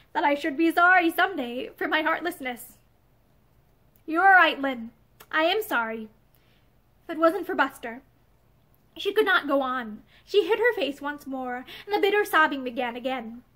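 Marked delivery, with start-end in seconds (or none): 0.1-8.0 brokenly. Acted. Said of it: "she went on brokenly".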